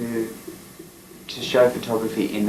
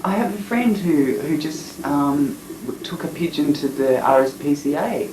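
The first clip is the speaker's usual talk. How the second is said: put-on higher, eager girl's voice; Kathy tells him about the pigeon, lightly higher and eager; lightly voiced Kathy; 5 semitones higher than usual. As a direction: mimic her chatty tone, a touch higher. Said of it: "she goes".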